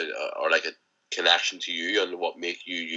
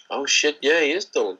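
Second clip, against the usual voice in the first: higher-pitched mock realization; retold surprise; 7 semitones higher than usual. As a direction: retell a sudden recognition in a higher voice. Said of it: "and she was like".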